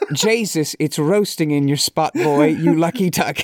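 laughing into a put-on Irish brogue; hammy Irish exclamation with a laugh; awful Irish accent. Shown as a demonstration. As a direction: slip back into a bad Irish accent, amused. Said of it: "Just when I thought the accent wouldn't serve me anymore".

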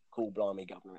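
lightly mocking a bad Cockney accent, half-hearted; a quick, understated jab at a bad Cockney accent. Mocking Russell Crowe's bad Cockney accent to a friend, lightly imitated. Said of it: "he's got the worst Cockney accent since Dick Van Dyke".

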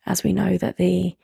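distorted, wobbling call line; glitchy warbling connection; wobbly warbling call audio. Real, not acted. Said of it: "your sound is distorting".

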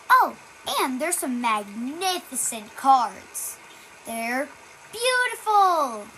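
sales pitch with stretched-out flourishes; swooping, hammed-up product pitch; homemade ad read. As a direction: play the commercial announcer, savoring key words.

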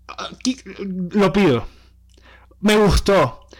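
breathy whispered aside, no voice at all. Real, not acted. To his co-host, claiming Haya in a whisper. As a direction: say it under your breath like a secret.

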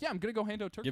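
casual mock-modest shrug of a line; imitated nonchalance. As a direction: toss it off like it's nothing. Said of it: "he said it so nonchalantly".

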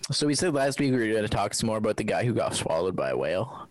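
whispering. Pretend. Whispered podcast intro.

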